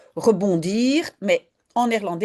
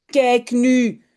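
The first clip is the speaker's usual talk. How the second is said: a touch of a cross mother, a bit louder; mildly angry mother; 4 semitones higher, 5 dB louder than usual. Acted. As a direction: scold lightly. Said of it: "zegt moeder boos". (mère un peu fâchée)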